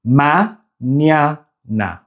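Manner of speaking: mañana slowly as ma, nya, na; ny in second syllable. Shown as a demonstration. Teacher modelling the word for learners, ny in second syllable. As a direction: open the second syllable of mañana with one ny sound. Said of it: "second syllable has the ny sound".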